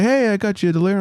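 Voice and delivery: buddy's voice. Retold or imitated. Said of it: "He's like".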